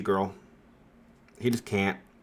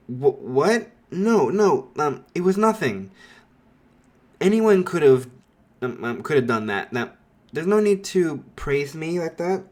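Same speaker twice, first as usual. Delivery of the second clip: a hint of flustered, stammering boy, higher; flustered modesty; 3 semitones higher, 3 dB louder than usual. Izuku waving off Ida's praise, mildly flustered. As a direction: brush off praise with a light mock fluster. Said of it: "he's flattered".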